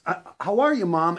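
loud, high son calling Mom. Retold or imitated. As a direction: call out brightly to Mom. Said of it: "like the guy says".

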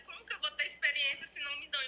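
venting about no chances; frustrated. Real, not acted.

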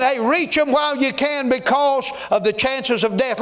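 urgent, driving Southern pulpit exhortation; fervent preaching. Real, not acted. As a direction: press the congregation hard, drawing out key words.

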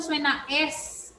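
the "S" in "suena S" drawn out and hissing. Shown as a demonstration. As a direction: stretch the "S" out slowly like a snake. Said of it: "esa S tiene que ser bien marcada". ("S" alargada como una serpiente)

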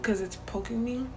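talking with sore new braces. Real, not acted. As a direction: speak through a sore mouth. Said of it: "my mouth hurts so bad".

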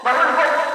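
هوب said as hope, final E silent; hope with no E sound. Shown as a demonstration. Teacher confirming hope, final E silent. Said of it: "يعني ما بيتنطقش".

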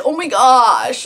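slow, drawn-out mock whine; whiny. Vlogger quotes her own complaint, whiny. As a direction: stretch it out, imitating your own whining. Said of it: "like, in a whiny way".

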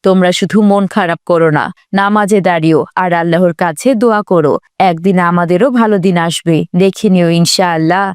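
low, tender motherly comfort; steady the children with hope and faith; reassuring mother. Acted. (আশ্বাস দেওয়া মায়ের নিচু গলা)

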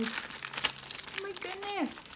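slow pleased gush; delighted surprise. Real, not acted. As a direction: savour the surprise. Finding peach tea.

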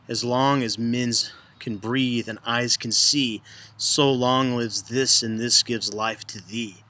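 slow, measured reading of the verse; slow poem recital. Shown as a demonstration. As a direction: savour each word like a recital. Teacher recites sonnet lines.

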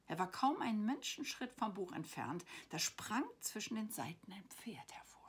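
expressive storybook reading; story narration. A narrator's reading. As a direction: read a bedtime adventure aloud, lingering on key words. Reads her story aloud.

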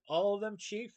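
astonished cry. A narrator's reading. Henchman questioning the chief, astonished cry. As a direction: pitch the question up in disbelief. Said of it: "Fickle Groover cried".

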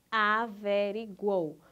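"Averiguou" slowly, beat by beat, last three vowels together; syllable division. Shown as a demonstration. Teacher showing an unbroken triphthong, syllable division. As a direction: sound out "Averiguou" with "guou" as one syllable. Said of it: "elas não se separam".

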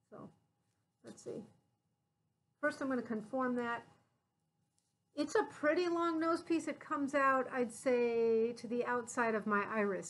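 muffled behind cloth mask; speaking while adjusting mask; through a face mask. Real, not acted. Seen 0: Mask held over nose and mouth; briefly off at 11.6.

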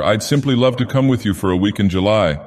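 a touch warmer and eager; lightly warm acceptance. Acted. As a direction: sound keen to go with him. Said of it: "more warmly than ever".

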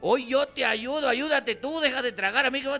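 sly coaxing wife. Retold or imitated. Wife urging husband to order dessert, high and wheedling. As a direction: coax him into dessert. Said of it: "te dice".

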